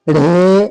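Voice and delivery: ढे said firmly with a breathy retroflex d; emphatic ढे. Shown as a demonstration. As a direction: punch out ढे as the answer. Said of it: "क्या तलफ़ुज़ निकालेंगे?".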